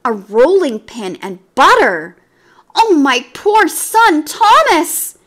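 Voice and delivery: high, loud, slow wail of despair; mother cat fearing for her son; anguished exclamation. A narrator's reading. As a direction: cry out for her lost son. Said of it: "exclaimed Tabitha, wringing her paws".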